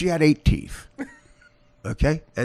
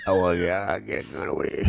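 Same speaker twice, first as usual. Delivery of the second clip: Italian guy-to-black impression; 8 semitones lower than usual. Blue-collar men interacting, low mumbled Italian-American accent. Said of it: "That's an Italian guy to black".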